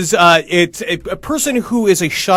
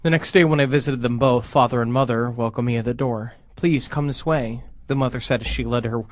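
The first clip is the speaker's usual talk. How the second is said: low, hushed scary-story reading; story narration; 5 semitones lower, 5 dB quieter than usual. A narrator's reading. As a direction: read a creepy tale aloud, measured. Reads a scary story aloud.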